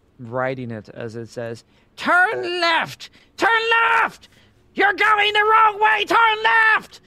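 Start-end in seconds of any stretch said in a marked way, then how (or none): 2.0-6.8 shrill, booming orc voice, very high, loud yelling. A game master voices an orc riding a creature, steering it: orc rider yelling orders. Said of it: "As he just yells out".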